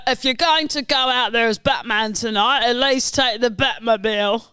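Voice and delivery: lightly voiced cockney butler; Michael Caine. Butler sending Batman out tonight, light cockney impression. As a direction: play the deferential butler to Batman. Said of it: "Right, Michael Caine".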